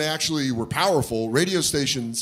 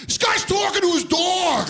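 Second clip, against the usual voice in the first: mocking kid. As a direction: call it out like a jeering kid. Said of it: "this kid behind me go".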